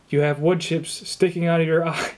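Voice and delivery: breaks into a laugh on the last word; a laugh slips out mid-sentence. Real, not acted. Shoemaker on the phone laughing at the customer's wood-chip injury. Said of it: "I don't mean to laugh at you".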